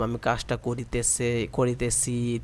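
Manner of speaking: করিতেছি drawn out as ko-ri-te-chhi; long sadhu verb form. Shown as a demonstration. Teacher showing students the long verb form. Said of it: "আমি লম্বা করে বললাম".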